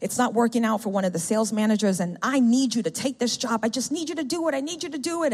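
frantic boss. Retold or imitated. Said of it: "she's frantic. She's very emotional".

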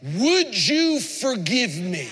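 slow, gentle would you forgive me; humble request. Shown as a demonstration. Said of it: "Here's the closing".

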